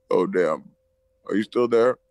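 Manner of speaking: rough voice after smoking; smoky throat. Real, not acted. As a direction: talk with smoke in your throat. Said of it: "Why do you sound like a robot".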